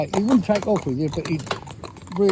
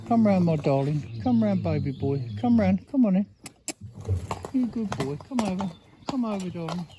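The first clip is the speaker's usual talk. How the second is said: coaxing a horse; 2 semitones higher than usual. Real, not acted. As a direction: gently talk him past the puddle. Coaxing horse past puddle.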